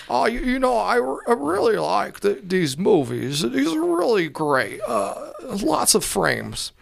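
put-on high, halting old Hollywood drawl; Jimmy Stewart impression. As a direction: stammer like a classic film star. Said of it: "Jimmy Stewart".

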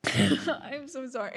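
slow, tearful apology with a laugh; real choked-up apology, drawn out; getting emotional. Real, not acted. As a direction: apologize while fighting tears. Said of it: "I'm getting emotional".

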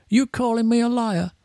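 indignant promoter, voice pushed up; mock scream. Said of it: "I can hear this guy screaming".

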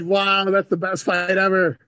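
loud, high, drawn-out awe; amazed delight. Real, not acted. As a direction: marvel slowly at full volume. Delighted reaction to friend's fight story.

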